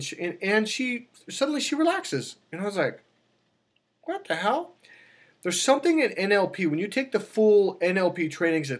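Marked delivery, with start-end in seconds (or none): 4.0-4.7 high, incredulous what the hell; mock astonishment at the niece calming down; retold disbelief. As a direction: sound baffled at what you're seeing. Retold shock at niece relaxing.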